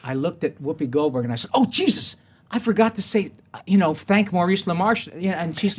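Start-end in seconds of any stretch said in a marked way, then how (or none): 1.5-5.1 acting out mild panic, higher pitched; retold panic. Winner telling Whoopi he forgot his thanks, retold panic. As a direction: replay a sudden dismayed realization. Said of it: "I was downstairs going panicking".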